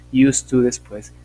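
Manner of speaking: "used to" alto e lento; stress on used to. Shown as a demonstration. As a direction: martele o "used to" para a turma. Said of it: "explaining question order".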